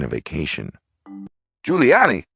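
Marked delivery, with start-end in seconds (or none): 1.6-2.3 higher, louder shout from the crowd; called out. A narrator's reading. Someone in the crowd calling out, incredulous. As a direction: call it out in disbelief. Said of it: "someone called out".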